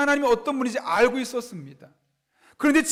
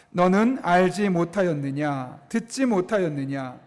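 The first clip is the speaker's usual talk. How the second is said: slow, low, measured scripture reading; scripture read in unison; 4 semitones lower than usual. Real, not acted. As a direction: read it out evenly so a congregation can follow. Leads congregation reading scripture aloud.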